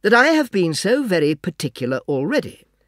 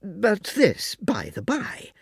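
whispered aside; 6 semitones higher, 4 dB quieter, slower than usual. A narrator's reading. Aside, unvoiced and slow.

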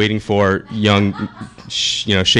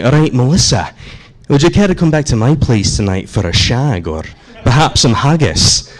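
put-on Scottish accent. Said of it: "if I were to ask you in a Scottish accent".

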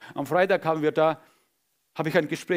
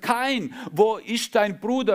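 calling out; 6 semitones higher, 4 dB louder, slower than usual. Acted. God calls Cain.

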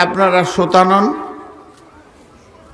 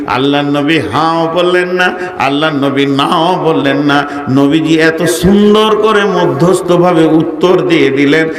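melodic sermon. Real, not acted. Preacher warns Ayesha of Judgement Day, in melodic sing-song preaching. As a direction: preach in a sustained chant, swelling on the big phrases.

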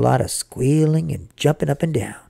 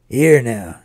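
Papa stepping in; 4 semitones lower, 3 dB louder than usual. Acted. Papa calms the crying family.

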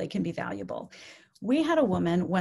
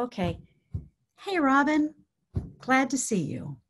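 easy, unhurried hello after settling; composed friendly greeting; 4 semitones higher than usual. Shown as a demonstration. Caregiver greeting Robin once settled, composed and friendly. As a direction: greet gently, with a small lift on the name. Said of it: "That's what we wanna come in with".

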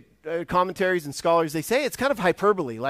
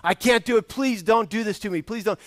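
mild pleading, a touch higher; begging servant; 4 semitones higher, 3 dB louder than usual. Retold or imitated. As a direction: plead with the master, lightly acted. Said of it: "he begs the master".

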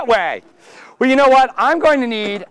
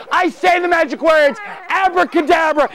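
put-on kids party magician; 4 semitones higher than usual.

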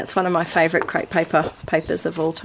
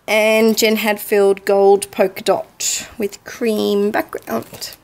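hiccups; slower than usual. Real, not acted. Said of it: "I got the hiccups".

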